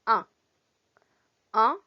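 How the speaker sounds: "un" as a single isolated nasal vowel; short, separate "un" for learners to repeat; pronounced as AN. Shown as a demonstration. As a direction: model "un" like "an", rising. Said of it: "pronuncia como A N".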